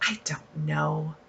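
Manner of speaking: breathy unsure whisper; I don't know, barely breathed out. Real, not acted. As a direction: drop to a whisper, half to yourself. Unsure if she'll use it.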